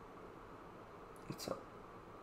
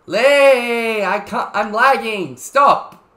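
higher, louder frantic pleading; shout, desperate and annoyed; scared and angry; 6 semitones higher, 8 dB louder, much slower than usual. Real, not acted. Yelling at Lee again.

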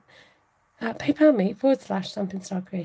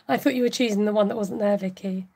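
laughing; 3 dB louder than usual. Real, not acted. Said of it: "That's why I'm laughing".

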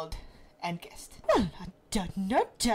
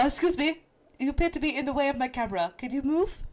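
lightly voiced Stewie Griffin, a bit louder and fast; 4 semitones higher than usual. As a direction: shoo the cat away in a prim little Stewie voice. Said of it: "that do Stewie".

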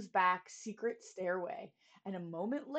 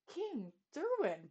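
calming; 5 semitones higher, 6 dB quieter than usual. Acted. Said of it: "tried to calm him down".

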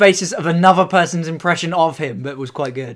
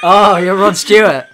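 excited shout; 4 dB louder than usual. Real, not acted.

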